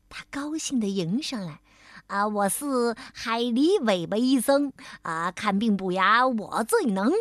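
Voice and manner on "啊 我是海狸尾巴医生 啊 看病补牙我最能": cheerful beaver dentist. Acted. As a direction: jolly rhyme in a lower dentist voice. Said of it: "牙医笑嘻嘻地说了句顺口溜儿".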